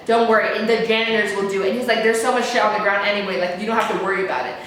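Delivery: low-pitched, offhand brush-off; dismissive man imitation. Storyteller mimicking the man leaving it to janitors, dismissive.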